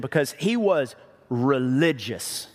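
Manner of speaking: "religious" set apart by a pause and drawn out; stress on religious. Real, not acted. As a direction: lean hard on "religious", saying it slowly. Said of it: "I'm emphasizing this word religion".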